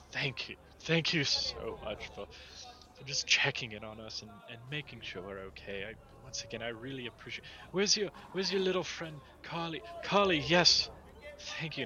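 effusive, grateful townsman; grateful Berkston character. Acted. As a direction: build from earnest thanks to delighted greeting. Game master voices grateful Berkston.

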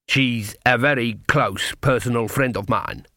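understated pride; a touch of self-satisfaction; proud. Acted. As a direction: boast mildly about a friend. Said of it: "he said proudly".

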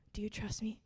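soft unvoiced whisper; God whispering to her. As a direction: breathe it as a gentle inner whisper. God's whisper in a retold prayer.

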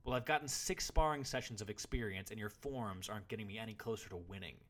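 loud, high indignant protest; retorting. A narrator's reading. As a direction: argue back hotly at your teacher. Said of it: "retorted the boy".

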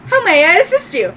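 high, loud robot voice with a gasp; little machine. Acted. Machine learning its name from owner, high robot voice. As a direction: sound out each phrase like a small robot. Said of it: "little machine walks up and goes".

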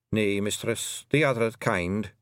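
Scots pixie, slow and ominous; slow grave Feegle. Acted. Rob Anybody tells Tiffany of the magic world, slow ominous Scots. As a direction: let the dread sink in, Scots burr.

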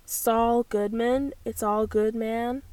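slow, careful American accent; unhurried attempt at an American accent. Shown as a demonstration. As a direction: draw out Saul Goodman in an American accent. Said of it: "in the American accent".

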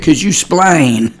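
"splain" cut short from explain, drawn out slowly; slow, amused "splain" with the first syllable dropped; quoted family dialect. Retold or imitated. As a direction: imitate a relative saying "splain" for explain, amused. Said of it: "that family way of explaining things".

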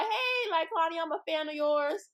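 high, eager hello to a celebrity; excited fan greeting. Retold or imitated. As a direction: gush at her like a starstruck fan.

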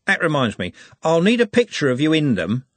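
character voice. Acted. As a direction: voice the speaker brightly. Character speaking, pitch raised.

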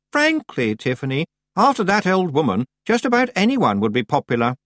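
put-on high-pitched, condescending young witch; haughty Anagramma, scornful. A narrator's reading. Anagramma disparaging that old woman, haughty. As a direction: confide it with superior scorn.

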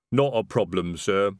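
a hint of a lumbering troll; easygoing troll sergeant; lightly voiced troll. A narrator's reading. Troll Detritus speaks.

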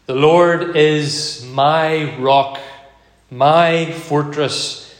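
slow, measured reading of the psalm verses; slow scripture reading. Acted. Preacher reading the psalm to the congregation, slow and measured. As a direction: lay out each title of God slowly, one by one.

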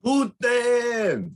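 put-on shouted with a Russian accent. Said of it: "entire show in Russian accent".

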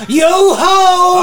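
loud shout of a crazed prisoner; hammed-up pirate cry. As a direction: holler it like a half-mad sailor. Prisoner shouts a sea song.

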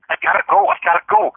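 very high, pleading little voice; dog's voice. Acted. Dog needing the bathroom talks to owner, high mock pleading. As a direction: put on a high squeaky voice for the dog. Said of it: "Dad is like".

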